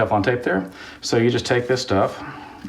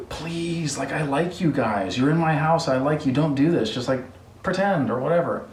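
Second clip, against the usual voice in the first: mock pleading; 4 semitones higher than usual. King begging the men.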